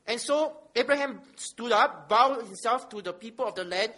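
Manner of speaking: measured public reading of holy text; scripture reading. Acted. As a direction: read it out firmly to the congregation, weighting key words. Reads scripture aloud.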